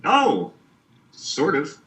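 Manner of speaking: gurgly, warbling bad-connection voice; underwater. Real, not acted. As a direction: sounds like talking through water. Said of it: "You're a, you're a little gurgly".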